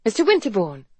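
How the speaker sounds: surprised exclamation; exclaiming. A narrator's reading. Doctor surprised to see her employer, exclaiming. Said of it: "she exclaimed".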